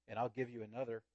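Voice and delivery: soft and tender offer; the ragman gently offering the weeping woman a new cloth. Acted. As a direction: hand it over softly, like a comfort. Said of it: "he said so gently".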